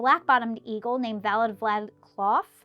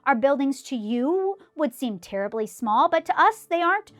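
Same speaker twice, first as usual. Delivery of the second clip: high, louder tiny mayor calling up; 6 semitones higher, 5 dB louder than usual. A narrator's reading. Tiny mayor calling up to Horton, high and a little louder. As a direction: call up from far below, small but proud. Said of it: "called the voice".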